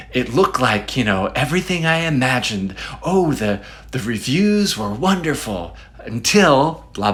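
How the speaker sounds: lightly mimicked hopeful reviewer; a touch of gushing optimism; mildly hopeful. Imitated reviewer starting a story, mildly hopeful. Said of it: "like, really hopeful".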